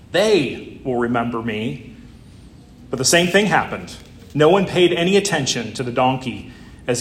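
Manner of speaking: lightly dramatized storybook reading; story reading. Acted. Pastor reading a donkey parable to the congregation, lightly dramatized.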